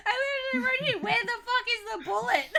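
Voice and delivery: laughing. Real, not acted. Laughing disbelief over the film.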